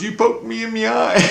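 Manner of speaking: high-pitched mimicked screech; Julie screaming. Repeating the kid's complaint about the eye, screechy. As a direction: imitate a screechy, wounded complaint. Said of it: "Julie's screaming at me".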